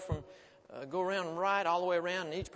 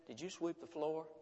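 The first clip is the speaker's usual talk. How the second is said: calm; 5 dB quieter than usual. A narrator's reading. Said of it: "Her mother very calmly said".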